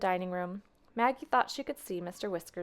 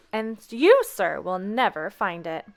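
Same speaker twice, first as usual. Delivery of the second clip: pointed taunt; 7 dB louder, slower than usual. Acted. Grandmother taunting rival.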